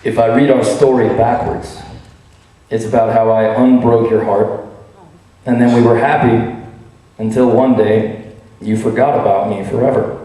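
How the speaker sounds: measured, slightly low story voice; story reading. Acted. Author reading a sad little story to an audience, measured storytelling.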